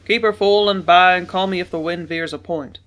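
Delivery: loud captain's command; barked order. A narrator's reading. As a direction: call the order across the deck. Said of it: "Father instructed him".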